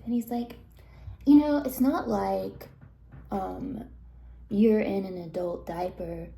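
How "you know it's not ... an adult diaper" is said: retold defensive retort, pushed louder at first. Brad answering pointed questions over pizza, mildly defensive. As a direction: push back as if accused. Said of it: "he kinda gets defensive".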